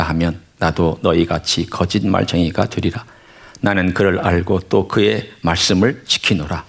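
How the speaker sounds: measured, solemn Bible reading; scripture reading. Acted. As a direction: read the verses steadily to the congregation.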